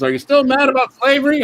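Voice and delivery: high, chirpy card message; sing-song greeting card voice. Pretend. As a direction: read it like a cutesy talking card. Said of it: "Card says".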